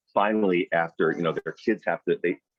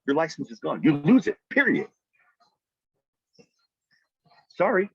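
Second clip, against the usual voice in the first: mock stern boss; 8 semitones higher, 3 dB louder than usual. Mock strict prospecting boss.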